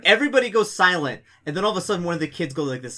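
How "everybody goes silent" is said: loud, high storyteller hush-to-boom; dramatic build. A narrator's reading. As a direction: sell the moment to the table.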